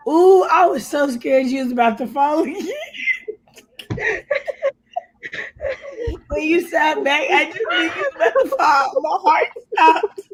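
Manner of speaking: high, laughing, rushing words; laughing recall. Real, not acted. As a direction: laugh through the scare story. Recalling fright while laughing.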